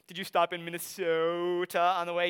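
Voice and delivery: a light mock Wisconsin accent with long O's and A's. Others teasing the Wisconsin student's accent, mild Wisconsin accent. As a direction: tease the Wisconsin vowels gently. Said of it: "the way that we hold out our O's and A's".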